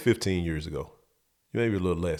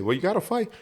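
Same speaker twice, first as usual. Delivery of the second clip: dad's advice, repeated; 9 semitones higher, faster than usual. Retold or imitated. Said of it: "this is what he said".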